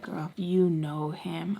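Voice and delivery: drawn-out knowing whisper; slow teasing whisper. Retold or imitated. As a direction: tease it slowly. Teasing insistence.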